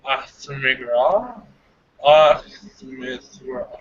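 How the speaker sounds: slow, drawn-out psychic reading; mentalist. Pretend. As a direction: feel out each syllable of the name. Psychic reading out a received name.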